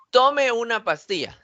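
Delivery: tono de mandato en "Tome"; "Tome" acentuado en la o, como orden; orden con tome. Shown as a demonstration. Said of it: "ahí le estoy dando una orden". ("Tome" con fuerza en la primera sílaba, como mandato)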